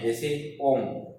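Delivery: slow ओम with the ओ held very long; stretched pluta vowel. Shown as a demonstration. Teacher showing students a prolonged vowel, very slowly. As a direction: draw ओम out to show a triple-length vowel. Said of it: "वो प्लुत स्वर कहलाते".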